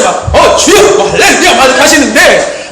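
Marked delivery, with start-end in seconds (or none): 0.3-1.0 mother's fervent cry. Retold or imitated. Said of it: "거의 막 표현하세요". 1.1-1.5 mother's fervent cry. Retold or imitated. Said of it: "거의 막 표현하세요".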